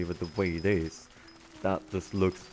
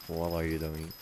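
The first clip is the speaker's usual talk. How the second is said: creepy quiet; 4 semitones lower, 4 dB quieter than usual. Retold or imitated. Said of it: "just like".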